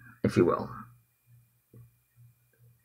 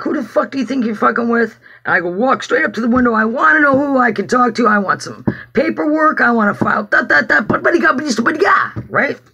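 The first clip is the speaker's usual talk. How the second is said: raised, rising retold tirade; heated retelling, getting higher toward the end; angry demanding; 5 semitones higher than usual. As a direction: replay storming up to the window, building into sputter. Acts out storming up to staff.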